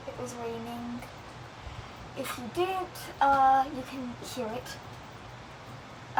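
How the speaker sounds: talking around a lollipop; words round a candy in the mouth; sucking a lollipop. Real, not acted. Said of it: "sorry, I have a lollipop in my mouth".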